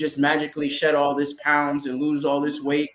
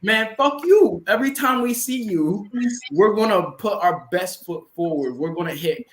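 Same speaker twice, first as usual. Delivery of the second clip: mock fired-up taunt; 4 semitones higher than usual. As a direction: taunt him like a rival hungry for revenge. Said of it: "they're like".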